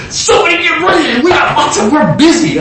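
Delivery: high, laughing brush-off of a busy aide; hammed-up busy assistant shooing her away; laughing mock disciples. Disciples voiced brushing woman off.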